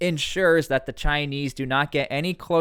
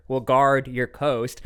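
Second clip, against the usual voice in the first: sarcastic; slower than usual. Shown as a demonstration. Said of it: "I'm being a little sarcastic here".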